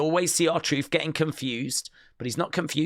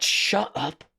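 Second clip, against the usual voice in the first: mock snap; 7 semitones higher than usual. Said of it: "she went".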